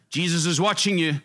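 a hint of an unseen watcher calling out; mysterious voice. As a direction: lightly put on a disembodied warning voice. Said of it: "the voice comes back".

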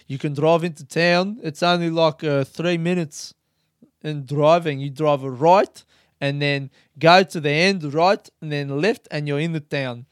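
imitated South African accent. Camper directing him into town, South African accent. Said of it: "I'm not gonna do the accent anymore".

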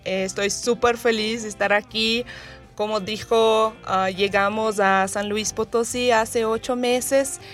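Portuguese-accented Spanish; Spanish with a Brazilian accent. Real, not acted. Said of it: "mi español no es súper".

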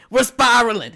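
panicked. Acted. Panicked spiral in the water.

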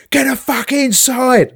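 high, loud mock yell up at a window; copper screaming. Policeman yelling up at the balcony, loud high yell. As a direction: bark the order up from the street. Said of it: "A copper screams up at me".

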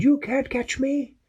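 high, slow teasing voice; flying germ teasing Peso, slow and high; germ taunting. Acted. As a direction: taunt like a cheeky pest.

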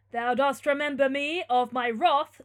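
slow, loud, menacing declamation; wrathful tyrant. Acted. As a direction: threaten him with full lordly wrath. Tyrant threatens the condemned youth.

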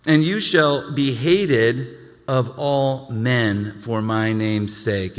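very slow, solemn verse; slow scripture reading. Acted. Pastor reading Matthew to the congregation, slow. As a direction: weigh every word of it.

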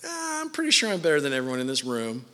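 lightly acted smug aside; mock smugness. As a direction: imitate a self-satisfied listener, casually. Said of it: "you're sitting here and you're like".

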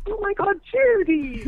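high scandalized gasp of a gossip; mock shock. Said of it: "And then it's like".

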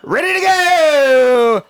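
high, slow, falling hype call; drawn-out hype yell. Real, not acted. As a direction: stretch it out like an announcer. Hyped show return.

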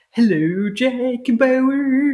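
mock sing-song Swedish chef accent. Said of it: "Swedish chef accent".

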